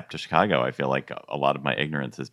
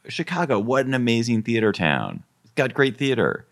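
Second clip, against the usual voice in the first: mock gushing outsider; 8 semitones higher than usual. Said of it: "People are always saying".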